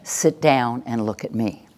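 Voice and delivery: level command with no doubt; assertive. Shown as a demonstration. Trainer modelling a command for the class to echo, assertive. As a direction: give the order as plain certain fact. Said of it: "we need the voice of no doubt".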